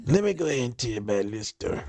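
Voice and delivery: drawled southern storyteller voice; southern accent. Retold or imitated. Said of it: "in your southern black accent".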